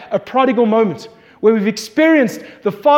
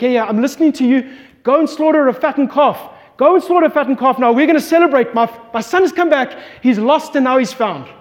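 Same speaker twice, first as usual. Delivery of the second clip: excited father; 3 semitones higher than usual. Retold or imitated. Father telling servants to prepare the feast, excited and raised. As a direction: urge the servants on with fast, rising joy.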